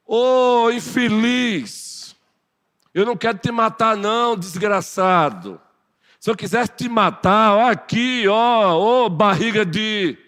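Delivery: loud, high, slow furious insult; angry David. Acted. David acting out an angry rebuke of Saul, loud and high. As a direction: spit the words at your enemy. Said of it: "é só pra ilustrar".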